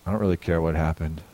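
soft, gentle reassurance; a father forgiving his daughter; tender. Retold or imitated. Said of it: "I said".

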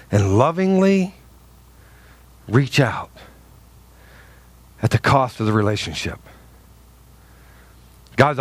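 pastor confessing lost friendships, near tears; emotional, hushed. Real, not acted. Emotional quiet testimony.

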